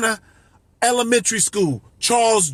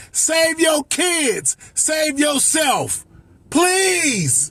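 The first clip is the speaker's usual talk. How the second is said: slow, higher plea; earnest plea; 4 semitones higher, much slower than usual. Real, not acted. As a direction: beg them sincerely, slowly. Pleading with abused women.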